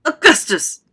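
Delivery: loud, high alarmed call; crying out. A narrator's reading. Wonka cries out to stop the boy drinking. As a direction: cry out the boy's name. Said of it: "cried Mister Wonka".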